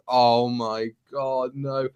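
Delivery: slow, sinking groan of disbelief; mock dismay. Recalling a letdown plot turn, dismayed. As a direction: draw it out, then drop away softly.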